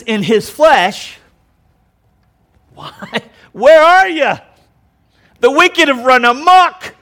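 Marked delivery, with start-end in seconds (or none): 2.7-6.9 high, loud anguished cry; Jesus crying out. Acted. Jesus on the cross crying out to God, loud and anguished. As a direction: cry out abandoned under wrath. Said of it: "I don't want to put words in Jesus' mouth".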